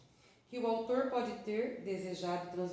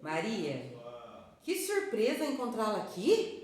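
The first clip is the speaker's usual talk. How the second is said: Maria cried out loud and bright with surprise; like spotting an old friend unexpectedly; surprised; 3 semitones higher, 4 dB louder than usual. Shown as a demonstration. Teacher demonstrating a delighted surprise greeting to the class. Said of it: "pronuncie o nome Maria com entonações diferentes".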